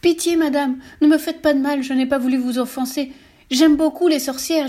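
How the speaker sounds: high, loud desperate pleading; begging. Retold or imitated. Kneeling teller begging the witch for mercy. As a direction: plead for your life on your knees. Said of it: "je me mets à supplier".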